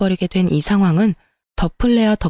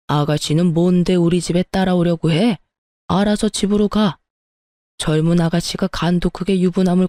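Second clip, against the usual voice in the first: coldly refusing. Acted. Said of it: "시부가 차갑게 거절하더군요".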